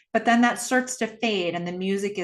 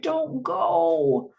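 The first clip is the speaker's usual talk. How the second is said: put-on pleading little girl; 6 semitones higher than usual. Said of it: "she's just like".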